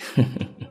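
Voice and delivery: low-effort wicked chuckle; short voiceless evil snicker; sneering little laugh; villain's laugh. A narrator's reading. Villain's mocking laugh in story.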